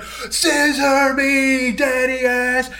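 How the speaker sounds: high, drawn-out mock yell; mock crowd shout. Imitating wrestlers finishing a long build-up, mock crowd shout. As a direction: stretch each word like a wrestling catchphrase. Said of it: "like, this long build-up".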